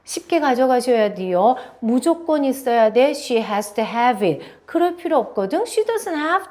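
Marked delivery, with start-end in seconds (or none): none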